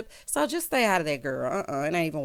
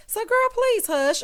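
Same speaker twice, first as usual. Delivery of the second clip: sassy dismissal; 13 semitones higher, 3 dB louder, slower than usual. Real, not acted. Mocking castmate's apology.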